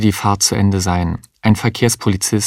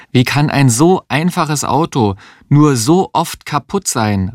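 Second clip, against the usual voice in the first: higher, fed-up woman's voice; exasperated outcry; 5 semitones higher than usual. Acted. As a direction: throw up your hands at the car. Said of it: "rief sie eines Tages aus". (genervter Ausruf der Existenzialistin, höher)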